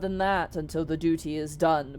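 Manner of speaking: stately genie vouching for the treasure; a touch of solemn salesmanship; lightly voiced grand genie. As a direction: proclaim it with measured, earnest emphasis.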